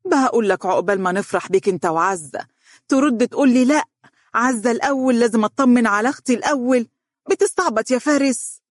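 mother's rising, high-pitched reproach; exasperated motherly complaint; reproachful. Acted. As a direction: reproach your son, pitch climbing as you go. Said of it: "نظرت له بعتاب وقالت".

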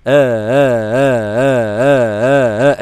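آه with the second hamza eased between hamza and alif; softened hamza. Shown as a demonstration. Teacher drilling students on tasheel, hushing a child. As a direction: rock it gently like hushing a baby. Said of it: "تقعد تهدد الطفل الصغير كده".

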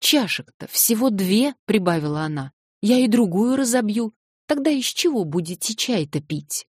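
high, loud, goading threat; girl goading after smashing a cup; defiant taunt. Acted. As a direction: taunt him, daring him to stop you.

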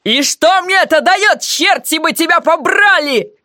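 high, slow furious shouting; mock-furious yell. A narrator's reading. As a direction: rage at her. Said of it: "в ярости заорал он".

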